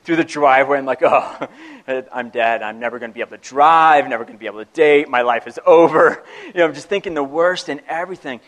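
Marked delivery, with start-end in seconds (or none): 1.0-6.2 louder, rushed dread, tumbling out; mock teen panic. Teen hearing dad's truck, louder in mock panic. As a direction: play the doomed teenager hearing the truck.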